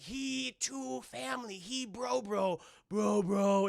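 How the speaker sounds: giant robot voice. Retold or imitated.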